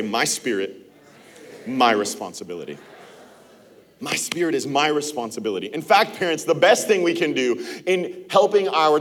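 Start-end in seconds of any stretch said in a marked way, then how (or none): 0.0-2.8 slow and lower, each phrase set apart for the room to repeat; slow recitation. Shown as a demonstration. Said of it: "Put your hand right here. Say". 4.0-5.7 fast, in one breath, the whole phrase run together; quick run-through. Shown as a demonstration. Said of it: "Put your hand right here. Say".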